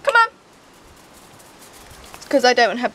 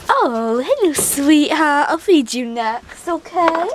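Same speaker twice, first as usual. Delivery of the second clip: silly pet voice; slower than usual. Real, not acted. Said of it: "doing these silly voices this morning".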